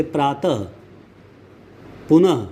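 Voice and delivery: प्रातः and पुनः each ending in a breath of ह; visarga pronunciation. Shown as a demonstration. Teacher giving examples of visarga, ह-sound ending on प्रातः, पुनः. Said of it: "ह की आवाज़ आती है".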